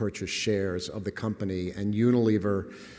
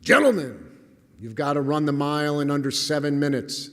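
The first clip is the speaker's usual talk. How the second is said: higher-pitched mock coach's shout; imitated coach yelling; 3 semitones higher, 4 dB louder than usual. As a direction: bellow the first word like a gym coach, then ease into a raised lecture. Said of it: "The coach was yelling at us".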